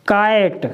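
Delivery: काइट said as kite with a long ai; काइट pronounced with the ai sound; model word. Shown as a demonstration. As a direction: give काइट like the English kite. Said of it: "इसका उच्चारण हो जाएगा".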